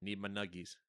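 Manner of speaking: put-on whiny kid begging nuggies; childish gamer voice. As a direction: whine like a spoiled kid.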